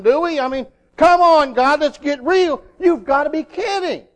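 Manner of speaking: incredulous objection, pitch climbing; mock protest. Preacher voicing people balking at God's command, mock protest. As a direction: plead and argue as if God can't be serious.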